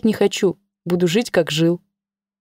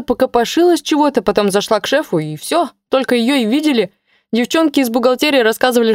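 put-on higher, hurried worried young man; agitated young colleague; 4 semitones higher than usual. Young colleague on the phone to his boss, higher agitated voice. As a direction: rattle it off anxiously.

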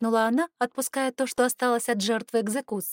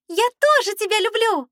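high, loud, gushing declaration; high loud drunken gush; loud confession; 12 semitones higher, 7 dB louder than usual. A narrator's reading. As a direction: blurt out love at full volume. Drunk lady shouts love confession.

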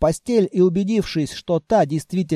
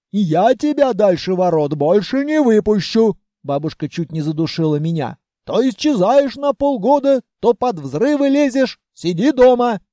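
put-on raised, scolding old granny voice; scolding grandmother; 3 semitones higher, 4 dB louder than usual. Grandmother scolding Vanya after the explosion, raised. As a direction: hug and scold in one breath.

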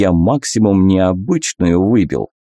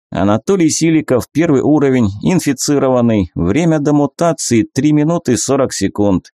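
raised, even announcing tone; system readout voice; 5 semitones higher than usual. Acted. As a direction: read it like an interface.

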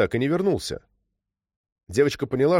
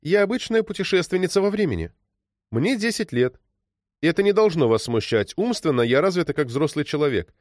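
put-on light, higher little-girl voice; girl's voice; 6 semitones higher than usual. Girl time traveller introducing herself to Krylov, light girlish voice. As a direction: play a ten-year-old who sounds grown-up.

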